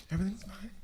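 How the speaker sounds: fake cheerful. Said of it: "And I was like".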